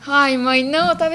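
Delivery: loud whiny complaint to mom; whiny protest. Retold or imitated. Whining to mom on phone.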